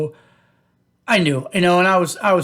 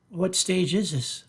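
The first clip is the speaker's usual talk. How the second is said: hushed dread; 2 semitones higher, 6 dB quieter, slower than usual. Retold or imitated. Held breath before asking stage.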